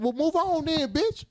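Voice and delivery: very high, airy mock brush-off; hammed-up dismissal; mock dismissive retort.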